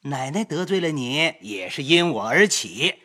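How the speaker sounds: hurried, ingratiating apology with a laugh; eager apology. Acted. Master apologising to the concubine, eager and fawning. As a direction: rush up and fawn over her. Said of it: "便赶上来说道".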